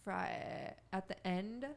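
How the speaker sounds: creaky vocal fry at phrase ends. Shown as a demonstration. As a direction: demonstrate exaggerated vocal fry. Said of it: "I'm accentuating it".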